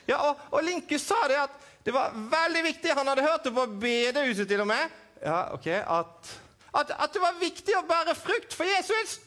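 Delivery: high puppet voice, eager; puppet Edvin. Acted. Puppet Edvin telling the host what Linkus said, eager and high.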